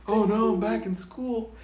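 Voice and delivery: a hint of panic, slow; hammed-up dismay, slowed down; mock panic. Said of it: "it's like".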